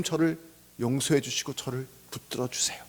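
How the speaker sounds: gentle, hushed begging; confessing prayer. Acted. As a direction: sink into a quiet appeal. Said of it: "라고 고백하는 게".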